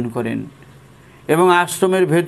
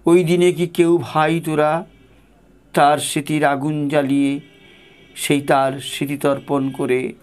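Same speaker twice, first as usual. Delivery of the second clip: devotional recitation. Acted. Reading Thakur's call to the disciples aloud, devotional recitation. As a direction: read it like a sacred letter, full of longing.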